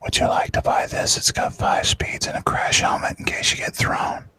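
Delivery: whispered sales pitch; ASMR whisper. Pretend.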